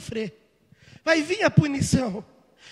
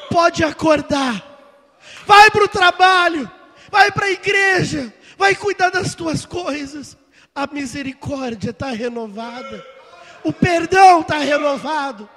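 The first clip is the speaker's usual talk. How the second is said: exhorting shout; 7 dB louder than usual. Real, not acted. Preacher telling the church to rise and go, loud. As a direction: send them out with force.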